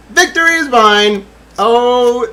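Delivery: loud, high victory cry; triumphant cry. Real, not acted. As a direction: proclaim it like a conqueror. Triumphant exclamation.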